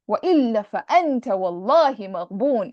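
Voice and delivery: fast, loud, emphatic recitation; emotional emphasis. Shown as a demonstration. Teacher showing the author's emotional plea. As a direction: declaim it with full emotional force. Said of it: "It's like he's speaking like that".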